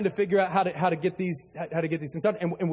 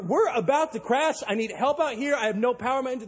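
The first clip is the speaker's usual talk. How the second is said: high, urgent plea for help; 4 semitones higher than usual. Retold or imitated. Captain begs the Coast Guard for help, urgent. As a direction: press them, alarmed. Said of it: "So I'm telling them".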